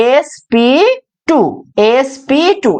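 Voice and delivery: "এসপি টু" in clearly separated parts; pronunciation demo. Shown as a demonstration. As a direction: model "এসপি", then "টু", for students to copy. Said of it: "এইভাবে উচ্চারণ করবো". ("এসপি টু" আলাদা করে, উচ্চারণ শেখানোর ভঙ্গিতে)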